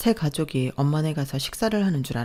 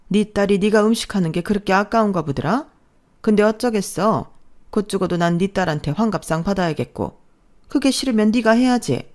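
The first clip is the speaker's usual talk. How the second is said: bossy mother-in-law; 3 semitones higher, 3 dB louder than usual. Acted.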